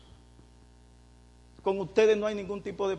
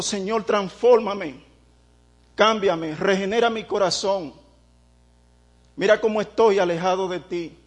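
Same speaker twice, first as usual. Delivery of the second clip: louder, earnest plea to be changed; pleading prayer; 4 dB louder than usual. Retold or imitated. Preacher voices a repentant sinner begging God, louder plea. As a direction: beg the Lord, slowing on "transfórmame". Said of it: "Yo digo".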